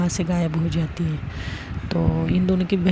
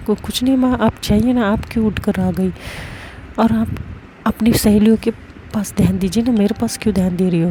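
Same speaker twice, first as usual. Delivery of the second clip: flustered brush-off; 3 semitones higher than usual. Acted. Brushing off mother.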